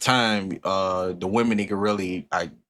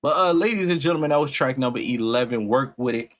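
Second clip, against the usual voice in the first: host announcer intro; 3 semitones higher than usual. Acted. Host greeting his viewers with a showman's announcer voice. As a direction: welcome the crowd like a showman.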